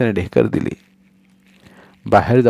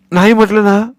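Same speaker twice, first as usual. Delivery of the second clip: shouted; 12 semitones higher, 6 dB louder than usual. Acted. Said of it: "सोन्या ओरडला".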